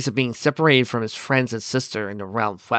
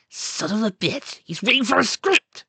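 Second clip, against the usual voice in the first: incredulous exclamation; 11 semitones higher than usual. Acted. Onlooker seeing Biff's script, incredulous exclamation. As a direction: rise higher as the absurdity lands.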